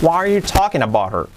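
"Why are you talking about her" linked, lifted then falling on "her"; expressive intonation. Shown as a demonstration. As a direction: run it together with a strong falling tune to "her". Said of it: "Practicadla con entonación". ("Why are you talking about her" con entonación)

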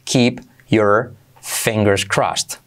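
very slow keep your fingers crossed; slow explained. Shown as a demonstration. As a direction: draw each word out. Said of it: "primero explicado lento". (despacio, palabra por palabra)

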